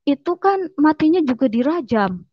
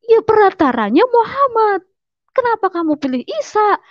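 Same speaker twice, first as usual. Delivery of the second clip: imitated objection, pitched much higher; indignant retort; 10 semitones higher, 3 dB louder than usual. Brother challenges the choice of Isa, indignant retort. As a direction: argue back in a high, insistent voice. Brother argues back in retold quarrel.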